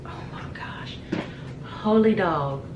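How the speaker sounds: breathless whispered disbelief; awed whisper. Real, not acted. Watching the video, whispering in awe. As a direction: whisper it, floored.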